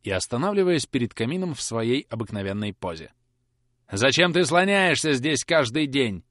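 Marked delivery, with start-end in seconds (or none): 3.9-6.2 slow, louder harsh demand; stern interrogation. Acted. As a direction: grill the boy coldly. Carker interrogating. (Каркер строго допрашивает, медленно и громче)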